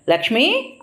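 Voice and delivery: sharp high call of her name; husband yelling for his wife over the dirty bathroom; angry yell. A narrator's reading. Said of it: "అంటూ గట్టిగా అరిచాడు".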